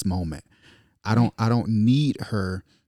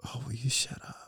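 mock wife's sleepy snap; 4 semitones higher, 11 dB quieter, faster than usual. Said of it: "she leans over and says".

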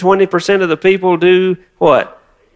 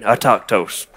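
"Autochthos" said low and dropping, with disdain; 5 semitones lower, 4 dB quieter than usual. Shown as a demonstration. Pastor teaching congregation the word, with disdain. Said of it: "say it with a little bit of disdain".

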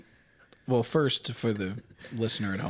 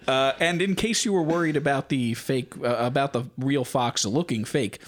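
infomercial; 3 semitones higher than usual. Pretend. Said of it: "here comes the sales pitch".

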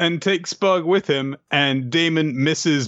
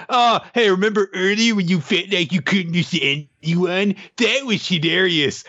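mocking taunt; 3 semitones higher than usual. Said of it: "And Damon's like".

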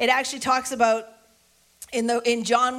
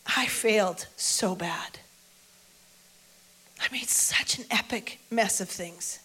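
dejected self-blame; 3 semitones lower, 5 dB quieter than usual. Acted. Peter's shame after the resurrection.

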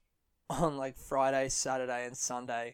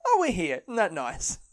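announcer's arrival tone; 2 semitones higher, 4 dB louder than usual. Acted. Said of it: "the next one is like".

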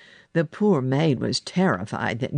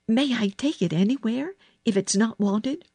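put-on higher-pitched girl's voice, asking; girl's request; 7 semitones higher than usual. A narrator's reading. Girl asking for something unwanted, higher questioning voice. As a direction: ask politely, lifting at the end. Child asks a favour in story.

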